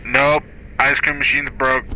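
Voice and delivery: drive-thru speaker voice. Pretend.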